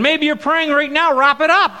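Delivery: joking that the audience is praying now; joking aside. Real, not acted. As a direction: tease the crowd with a laugh.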